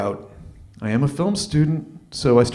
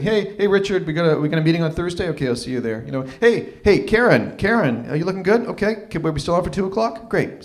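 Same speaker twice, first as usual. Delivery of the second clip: breezy office greetings; 4 semitones higher than usual. Retold or imitated. HR rep greeting colleagues while walking.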